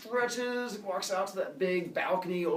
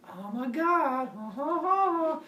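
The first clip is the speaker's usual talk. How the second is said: 1 mock sarcastic; 13 semitones higher, 5 dB louder, slower than usual. Prometheus mocking laughter.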